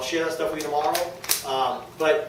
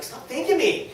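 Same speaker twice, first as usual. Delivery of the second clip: laughing; 12 semitones higher, slower than usual. Retold or imitated. Retold reply to grateful friend.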